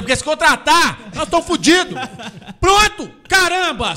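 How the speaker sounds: loud, high-pitched comic outburst; exasperated rant. Acted. Ranting about the Thiago Neves signing, exasperated rant. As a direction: climb into a hammed-up exasperated shout.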